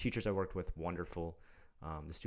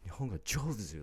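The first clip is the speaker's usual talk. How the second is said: patronizing praise; 4 semitones higher than usual. Retold or imitated. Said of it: "this patronizing".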